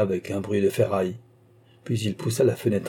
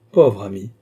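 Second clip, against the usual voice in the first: cried out; 6 dB louder than usual. Acted. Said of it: "s'écria monsieur de Carquebus".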